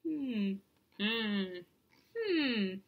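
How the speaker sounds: thoughtful humming. A narrator's reading. Nebraska thinks over Kansas's question, pondering hums. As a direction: hum as if mulling it over. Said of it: "Nebraska's thought process".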